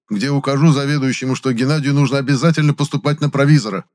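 high, gushing praise; overjoyed praise. A narrator's reading. Pharmacist hastily praising Gennady to Fowler, high and gushing. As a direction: gush about the boy to impress the guest. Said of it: "наполненным невыразимого счастья голосом".

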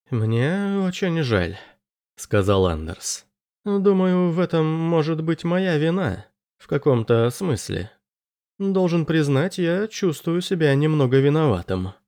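put-on apologetic young man, slightly awkward; Anders voice. A narrator's reading.

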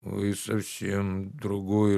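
slow, soft plaintive servant. Acted. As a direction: whine it out meekly, dragging. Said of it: "жалобно сказал Захар".

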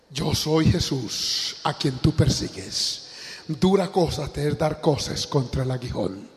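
slow, grave, measured answer from heaven; a hint of a divine voice, slowed right down; solemn voice of Jesus. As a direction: lay each word down slowly and gravely.

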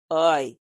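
quick hiss of pain; sharp pained ai. A narrator's reading. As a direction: yelp as the lip stings. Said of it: "зашипел Лукас". (резкое «ай» от боли)

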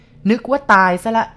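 put-on old man jeering through the hatch; mocking old man. A narrator's reading. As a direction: taunt her as a cruel old man. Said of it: "ชายแก่คนนั้นพูด".

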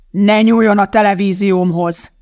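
loud, angry order; yelling. A narrator's reading. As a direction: bellow a warning to back off. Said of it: "üvöltötte a férfi".

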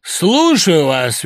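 slow, loud and lordly; grandly. A narrator's reading. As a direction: speak like a grand patron. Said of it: "велично проговорил Лёха". (величаво и медленно)

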